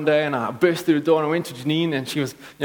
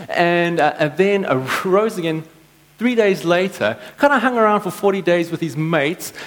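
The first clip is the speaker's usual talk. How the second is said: sarcastic; 3 semitones higher than usual. Retold or imitated. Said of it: "sarcastic tone in their voice".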